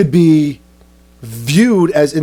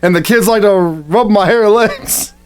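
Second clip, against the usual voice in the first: lightly voiced mascot; 6 semitones higher than usual. Continues mascot bit.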